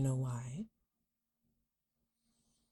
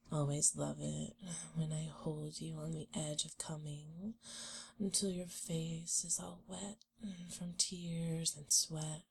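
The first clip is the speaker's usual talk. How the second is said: whispering; 6 dB quieter than usual. Acted. Teasing, intimate whisper.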